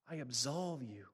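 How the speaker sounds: low, soft and tender absolution; gentle voice of Jesus. Retold or imitated. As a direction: speak it softly as Jesus would. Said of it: "I heard the sweet voice of Jesus".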